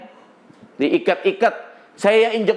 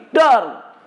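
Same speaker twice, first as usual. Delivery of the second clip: sudden higher-pitched "dar" for a pistol shot; imitated gunshot; 3 semitones higher, 4 dB louder than usual. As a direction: mimic a gun going off. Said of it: "dengan pistol di udara gini". (tiruan bunyi tembakan pistol)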